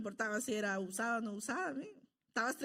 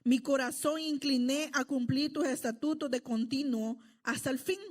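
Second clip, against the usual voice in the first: scripture reading. Acted. Reads psalm aloud to congregation.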